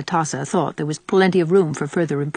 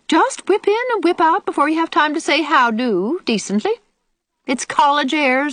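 put-on high, grumbling old woman; scolding old aunt; 6 semitones higher than usual. Old aunt warning the girls off sick Ruby, scolding. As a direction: find fault in a high, disapproving voice.

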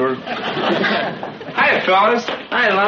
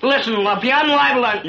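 raised, heated threat; higher and louder, losing patience; angry threat; 5 semitones higher, 4 dB louder than usual. Acted. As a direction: square up to a taunting bully. Threatens the boy taunting him.

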